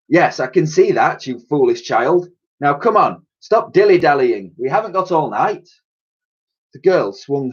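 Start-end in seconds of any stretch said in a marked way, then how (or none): 0.1-5.7 higher, scolding professor voice; impatient old professor. Acted. Professor scolds Elsie to hurry up. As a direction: chide the foolish child.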